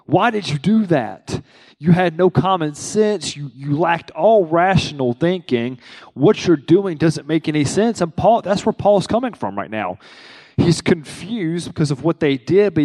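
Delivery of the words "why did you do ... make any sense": exasperated scolding. Retold or imitated. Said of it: "Come on, just like".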